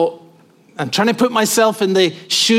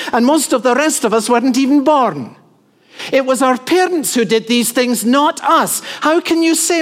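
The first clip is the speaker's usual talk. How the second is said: put-on higher pitch, an indignant young listener objecting; imagined protest to Moses; 5 semitones higher than usual. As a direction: raise your hand and protest, pleading and indignant. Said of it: "That's what I'd want to say to him".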